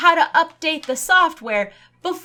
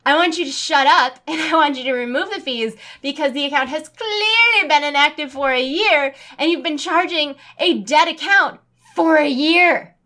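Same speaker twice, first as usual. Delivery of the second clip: angry demand; 3 semitones higher, 4 dB louder than usual. Retold or imitated. Venting anger at the agent.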